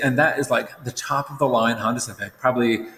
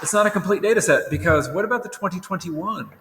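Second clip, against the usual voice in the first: higher, doubtful questioning voice; skeptical objector; 6 semitones higher than usual. Retold or imitated. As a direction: play the nitpicky student. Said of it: "those people who are right now saying".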